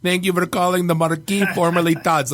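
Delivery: imitated Romanian hotline message; Romanian accent. Romanian guy welcomes callers to the bar's hotline, mock Romanian accent. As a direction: do the bar greeting with a Romanian accent. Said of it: "he's, like, a Romanian guy".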